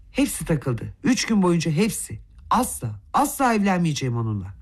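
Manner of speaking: ordinary delivery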